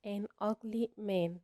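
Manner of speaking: "an ugly man" said very slowly and clearly; slow down and lay out "an ugly man"; slow model phrase. Shown as a demonstration. Teacher modelling the correct phrase, slow and deliberate. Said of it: "الصح".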